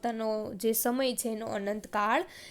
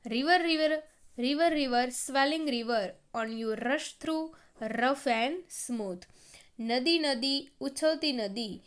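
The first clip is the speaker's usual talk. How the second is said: measured classroom poem reading; poem recitation; 2 semitones higher, slower than usual. Acted. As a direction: call to the river, then slow through each phrase.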